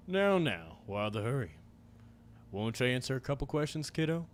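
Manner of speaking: a hint of a drawling menacing cowboy; lightly voiced stranger, venom under the charm. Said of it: "my cowboy voice for this".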